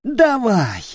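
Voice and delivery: high, loud dare; defiant shout. Acted. Nick with a knife at his throat, loud and high. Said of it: "крикнул Ник".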